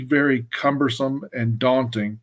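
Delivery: "daunting" slowed and weighted as the key word; stress on daunting. Real, not acted. Advocacy speaker warning partners about California's uphill fight, stressing "daunting". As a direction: lean hard on "daunting" and take the whole phrase slowly. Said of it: "and I emphasize the word daunting".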